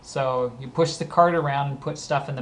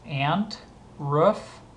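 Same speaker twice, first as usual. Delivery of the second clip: ordinary talk, nothing marked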